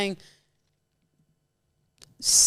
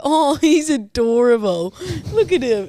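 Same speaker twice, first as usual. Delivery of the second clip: cooing, laughing; 4 semitones higher, 4 dB louder than usual. Retold or imitated. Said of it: "and then I go".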